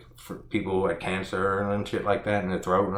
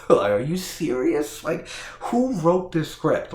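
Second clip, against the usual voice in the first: laughing disbelief; 8 semitones higher, 3 dB louder than usual. Real, not acted.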